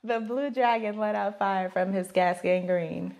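deadpan challenge read. Real, not acted. Repeating the phrase for the guessing partner, deadpan. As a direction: recite it low and evenly.

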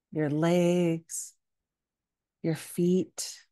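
calm yoga nidra guidance with long pauses; unhurried meditation teacher's voice; guided meditation. Acted. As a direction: gently lead listeners into rest, leaving space between phrases.

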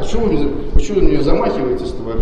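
loud alarmed protest; shouting. Real, not acted. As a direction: protest loudly, rattled. Man raises hand at him.

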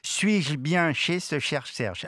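slow, careful articulation; slow diction drill. Shown as a demonstration. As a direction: spell out each sound slowly. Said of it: "répéter après moi".

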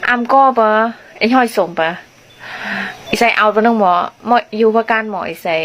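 speaks a phrase in her home-village Lua accent. Shown as a demonstration. เธอพูดสำเนียงบ้านของตัวเองให้แฟนฟังอย่างเป็นธรรมชาติ. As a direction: shows viewers how her village talks. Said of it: "ฟังสำเนียงบ้านบิมนะ".

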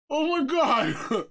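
slow, high and loud oh my God; shocked gasp. Real, not acted. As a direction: drag it out in disbelief. Recovering from the scare.

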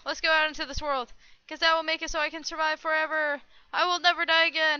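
loud, high proclamation; mock-triumphant boast. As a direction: declare yourself invincible, loud and high. Boasting of being unkillable in game.

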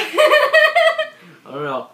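giggling, high and slow; laughing. Real, not acted. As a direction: laugh through the words. Laughing after the challenge.

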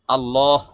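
আল্লাহ said low with a long, rounded "lawh"; refined pronunciation. Shown as a demonstration. Teacher repeats the nicer way for learners, refined pronunciation. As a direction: lengthen and round the end of আল্লাহ. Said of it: "এভাবে করেও আপনি".

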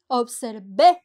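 Observé with the last é stressed and rising; stress on the final é. Shown as a demonstration. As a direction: lean on the é of Observé. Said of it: "con acento".

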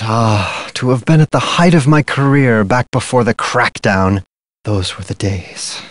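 low, fading nostalgia; quietly wistful reminiscence. Acted. Wistful recollection of past career.

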